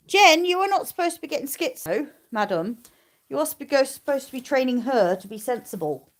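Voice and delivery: high, teasing telling-off to the dog; mock scolding a dog. Real, not acted. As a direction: chide her playfully like a naughty pup. Scolding the dog about sheep.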